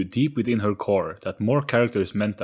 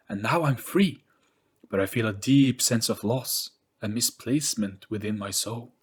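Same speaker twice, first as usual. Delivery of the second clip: touch of sadness; 3 semitones higher than usual. Acted. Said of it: "with a touch of sadness".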